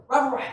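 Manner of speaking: "Robert Ray" run smoothly together; real smooth. Shown as a demonstration. Showing listeners how to say the name, "Robert Ray" real smooth. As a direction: glide from "Robert" into "Ray" without letting it hang. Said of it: "Real smooth".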